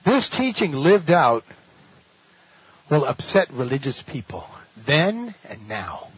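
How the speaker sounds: slow, weighty delivery; preacher hammering the key claim; slow emphasis. Shown as a demonstration. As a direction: drive it home slowly. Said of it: "Listen carefully".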